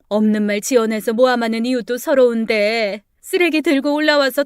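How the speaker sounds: a lightly acted sobbing lament; mock wailing. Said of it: "울음소리가 들리더랍니다". (서럽게 우는 척하며 하소연)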